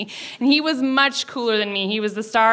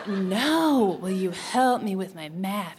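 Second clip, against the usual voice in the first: put-on lower, drawn-out suggestive boy voice; insistent innuendo; 3 semitones lower, 3 dB quieter, slower than usual. Boy repeating his dirty hint to classmate, low and insistent. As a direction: press the double meaning, stretching the words.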